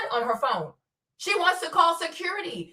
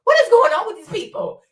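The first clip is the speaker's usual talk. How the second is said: incredulous; 5 semitones higher, 5 dB louder than usual. Retold or imitated. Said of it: "I'm like".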